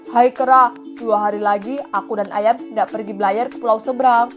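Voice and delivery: loud hail to the monkey; a hint of a crab character luring someone; lightly voiced crab. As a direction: announce the trip invitingly. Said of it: "kepitinglah yang berbicara kepada kera".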